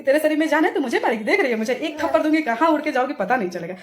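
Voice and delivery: heated mock-threatening comeback; re-enacted angry retort. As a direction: dare her, voice pushed up. Retold comeback threatening a slap.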